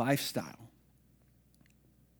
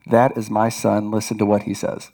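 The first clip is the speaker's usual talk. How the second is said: voice of God; 6 semitones lower, 7 dB louder than usual. Retold or imitated. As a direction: boom it down from heaven. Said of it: "the voice of God speaks from heaven".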